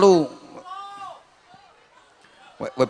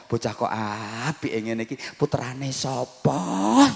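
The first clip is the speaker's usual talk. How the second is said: admiring neighbours; 4 dB quieter than usual. Retold or imitated. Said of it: "wong-wong leh ngomong".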